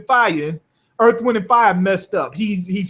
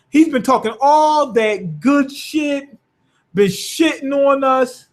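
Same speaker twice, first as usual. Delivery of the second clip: retold cussing out; 5 semitones higher than usual. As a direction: imitate a fed-up teammate laying into someone. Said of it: "I got to cuss this motherfucker out".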